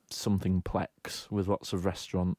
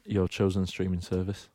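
radio announcer. Pretend. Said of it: "why don't you do, do an advert break".

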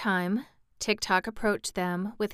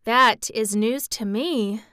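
slow, musing reply; a touch of thoughtful girl; thoughtfully; 2 semitones higher, 6 dB louder, slower than usual. Acted. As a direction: ponder it slowly. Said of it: "said Dorothy thoughtfully".

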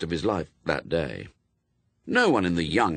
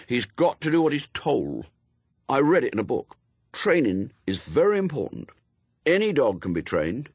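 lightly voiced earnest boy, higher; young Adam, insistent; 5 semitones higher than usual. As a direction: insist like a boy quoting rules.

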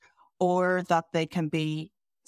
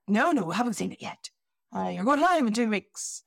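fast, higher, breezy excuses, rising into a mock squeal; mock breezy project team; 5 semitones higher, faster than usual. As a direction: brush it off cheerfully, faster and higher as it goes. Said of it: "And I'm going".

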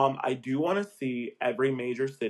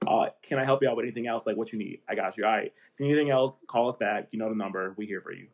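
code-switched casual voice; 4 dB louder than usual. Shown as a demonstration. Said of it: "he just switched that up so quickly".

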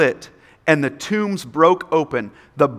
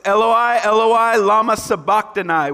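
understated cry, pitch raised; 6 semitones higher than usual. A narrator's reading. Preacher reads Jesus' words from the cross, crying out mildly. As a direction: read it as a raised-pitch cry, not a shout. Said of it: "Jesus cried out in a loud voice".

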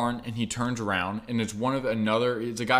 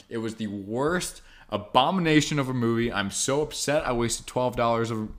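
mock outraged review. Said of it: "here is my thirty-second review".

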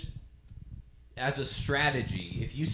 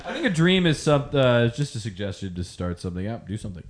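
put-on Foghorn Leghorn southern accent; 3 semitones lower, 4 dB louder, faster than usual. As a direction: overblown Southern accent, half laughing. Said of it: "like, a Foghorn Leghorn southern accent".

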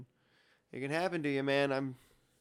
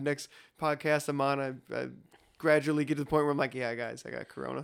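muffled like in a bubble. Real, not acted. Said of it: "it sounds like you're in an iron lung".

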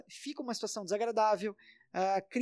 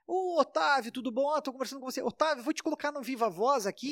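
relaxed casual tone; 4 semitones higher than usual. Acted. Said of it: "num tom até descontraído".

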